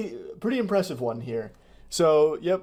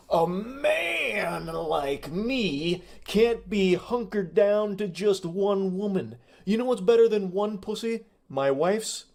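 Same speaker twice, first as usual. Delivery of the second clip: higher, slow, smarmy mock pickup line; creepy pickup guy; 5 semitones higher than usual. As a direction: ham up the sleazy flirt. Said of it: "he continues with his speech".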